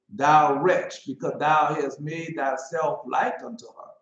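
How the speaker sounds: loud prophetic proclamation; mock biblical prophet. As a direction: cry out the woe. Preaching the woe verses.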